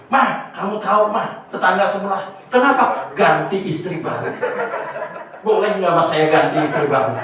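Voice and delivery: a playful husband half-daring his wife; husband teasing his wife about the neighbour, loud and cheeky. Acted. Husband voiced pestering his wife.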